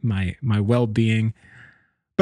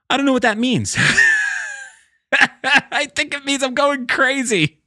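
high-pitched voice cracking up with laughter; laughing helplessly; 12 semitones higher than usual. Real, not acted. Host admits the nightmare means he's going crazy, laughing. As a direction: squeal it through real giggles.

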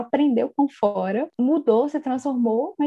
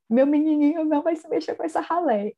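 lightly voiced haughty aunt, a bit higher; a hint of a snobbish old lady; Lady Catherine; 4 semitones higher than usual. Podcaster mimics Lady Catherine scorning the family, haughty. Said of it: "e a Lady Catherine".

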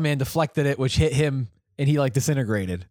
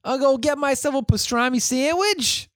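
much higher, hammed-up New York accent; a cartoonish New York deli guy, pitched way up; mock New York accent; 10 semitones higher than usual. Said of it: "very stereotypical New York Jew accent".

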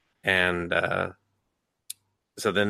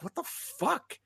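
what the fuck; 10 dB quieter, slower than usual. Retold or imitated. Incredulous reaction quote.

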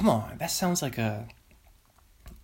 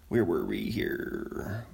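1 whisper; 6 semitones lower, slower than usual. Real, not acted. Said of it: "whispered aside to herself".

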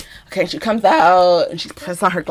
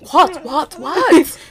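higher-pitched repeated questioning; startled housemate; 6 semitones higher, much slower than usual. Retold or imitated. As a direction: lightly imitate someone roused and confused. Housemate coming out, retold.

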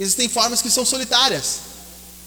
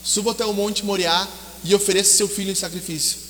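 voice of God; 2 semitones lower, 7 dB quieter than usual. Acted. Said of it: "Deus falou para Abraão".

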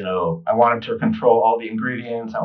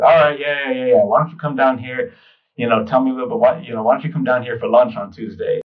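put-on impatient old lady; 2 semitones higher than usual. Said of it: "she kinda, like, cut me off".

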